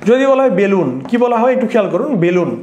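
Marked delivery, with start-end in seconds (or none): 0.6-0.9 বেলুন said "belun" with pure "e"; closed e vowel. Shown as a demonstration. Teacher asking students to notice the sound, closed e. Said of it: "বেলুন এর উচ্চারণটা একার". 2.2-2.5 বেলুন said "belun", first vowel narrow; closed e vowel. Shown as a demonstration. Teacher repeating the word for students, closed e. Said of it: "এর সংবৃত উচ্চারণ হচ্ছে".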